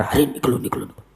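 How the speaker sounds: urgent but muted wake-up call; hushed calling out. Retold or imitated. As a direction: call each other softly, fading. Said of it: "एक दूसरे को पुकार". (धीमी आवाज़ में एक दूसरे को पुकारना)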